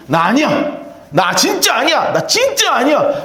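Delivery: Peter's denial building up. Acted. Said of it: "베드로가 뭐라고 배신했습니까?".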